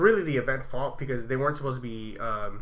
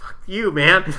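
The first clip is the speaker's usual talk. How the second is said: mock outburst; 5 semitones higher, 7 dB louder, slower than usual.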